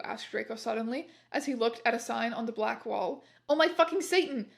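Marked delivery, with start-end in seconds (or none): 3.5-4.5 scream. Acted. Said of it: "I screamed".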